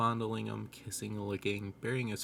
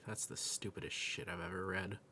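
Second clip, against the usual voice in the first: muttering; 8 dB quieter than usual. Retold or imitated. Blind friend complaining about the cheese grater, muttering. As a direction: grumble it half to yourself, much softer. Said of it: "I heard him mutter".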